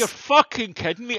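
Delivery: high-pitched retold incredulity; mock disbelief. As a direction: act out your past shock.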